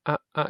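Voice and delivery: ah cut off as short as possible; short ah vowel. Shown as a demonstration. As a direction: clip the ah hard. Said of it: "It's very short".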